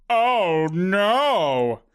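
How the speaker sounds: drawn-out, mock-dismayed cry; tiny vision of a man in comic dismay; little Bernard. A narrator's reading. Little Bernard recoils in pain, comically dismayed. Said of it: "the little Bernard said".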